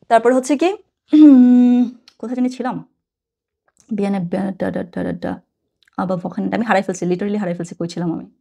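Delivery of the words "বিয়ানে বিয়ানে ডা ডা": usual speaking voice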